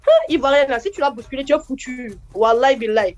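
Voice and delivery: put-on Ivorian accent. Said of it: "Elles aiment trop faire palabre".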